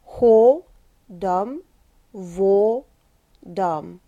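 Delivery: по слогам; syllable by syllable. Shown as a demonstration. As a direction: round dark O on ho, schwa on dam. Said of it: "So again".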